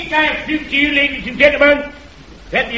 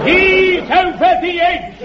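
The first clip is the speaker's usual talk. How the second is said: laughing; 7 semitones higher, slower than usual. Acted. Crank laughs at own joke.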